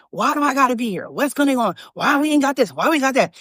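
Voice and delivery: mildly mock the grumblers; a touch of whining protest in each question; imitated complaining. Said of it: "they were always complaining".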